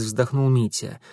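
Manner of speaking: plain reading voice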